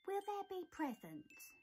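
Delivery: squeaking. Acted. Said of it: "squeaked Mouse".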